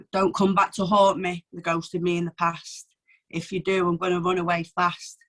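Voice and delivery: steady, resolute poem recital; reading her recovery poem, firm and sincere. Acted. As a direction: read it straight at your old self.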